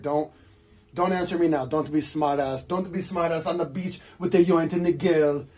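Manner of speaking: put-on a light French accent for the chef's advice; a hint of the chef's French accent, half serious; mock French accent. The chef warning young Joe, a light mock French accent. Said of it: "that's how he talked".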